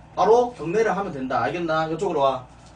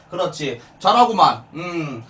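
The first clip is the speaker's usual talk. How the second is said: usual speaking voice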